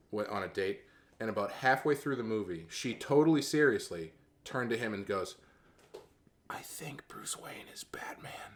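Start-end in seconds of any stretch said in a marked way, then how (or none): 6.4-8.5 loud, slow, soft whisper. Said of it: "She's got a really loud whisper".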